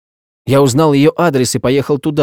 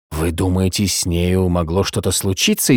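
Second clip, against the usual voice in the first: softer, lower, worried question; frightened; 4 semitones lower, 3 dB quieter than usual. Acted. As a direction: ask it scared and quiet. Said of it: "испуганно спросил Сент-Винсент".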